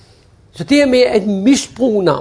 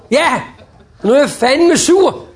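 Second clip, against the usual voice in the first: mock grumpy customer; 5 semitones higher, 3 dB louder, slower than usual. Annoyed customer reply.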